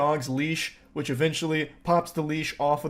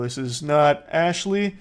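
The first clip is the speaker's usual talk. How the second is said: imitating the denial, slow and cool; a hint of slow casual denial; mock cool denial; slower than usual. Mimicking the caller dodging the sergeant. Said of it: "she's trying to play it cool".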